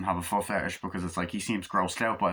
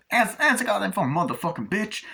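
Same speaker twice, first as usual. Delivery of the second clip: mock gangster yell; 11 semitones higher than usual. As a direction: rattle it off like a shouting hood. Acted gangster dialogue from movie.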